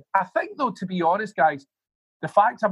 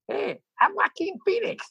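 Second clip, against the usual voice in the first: imitating Joaquin. Imitating Joaquin introducing himself.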